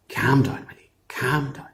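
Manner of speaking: hushed, unvoiced calming whisper; soothing whisper. Una hushes the raging giant at her door, whispering. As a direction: whisper him down gently.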